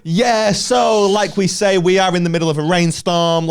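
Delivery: lightly voiced reporter with satellite delay; a hint of a stiff correspondent; mock news reporter. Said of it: "and then they go".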